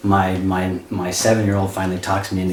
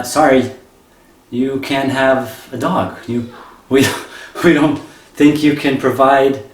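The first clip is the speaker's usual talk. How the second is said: shelter worker; 5 semitones higher than usual. Retold or imitated. Shelter staff turn down the family, prim mock refusal. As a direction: play the prim shelter clerk.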